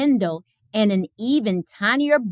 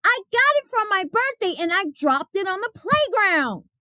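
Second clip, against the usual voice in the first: put-on higher boy's complaint, a touch of crying; upset Martin; 10 semitones higher than usual. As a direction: tell the teacher, close to tears. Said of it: "cried Martin".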